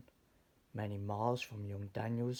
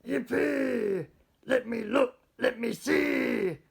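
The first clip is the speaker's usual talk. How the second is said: high, loud gleeful yell, slowing at the end; a boy begging to look through the telescope; excited shout; 12 semitones higher, 10 dB louder than usual. A narrator's reading. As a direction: shout with childish glee. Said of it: "Daniel shouted".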